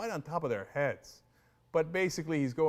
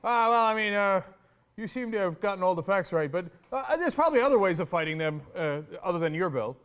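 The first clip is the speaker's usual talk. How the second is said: mocking the anchor; 3 dB louder than usual. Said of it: "the excuse of the second male anchor there who's like".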